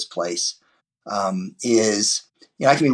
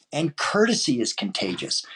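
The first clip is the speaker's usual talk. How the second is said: whispered, softer aside; whispered punchline about courtesy; 3 semitones higher, 6 dB quieter than usual. Real, not acted. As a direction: hush it like a secret. Emphatic whispered point.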